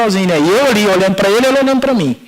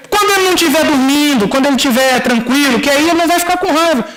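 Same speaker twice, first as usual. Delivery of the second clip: higher-pitched bargaining, acted out; retold pleading excuse; 6 semitones higher than usual. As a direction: plead for a delay in a raised pitch. Stalling God in retold dialogue.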